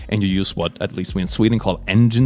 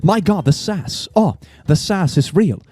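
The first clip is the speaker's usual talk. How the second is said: higher, sassy self-delight; 5 semitones higher than usual. Real, not acted. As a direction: revel in being sassy, higher. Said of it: "I'm so sassy".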